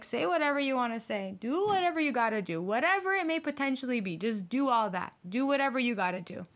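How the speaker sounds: lilting, breezy mock indifference; unbothered brush-off. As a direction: wave them off with swooping pitch. Acted unbothered reply to haters.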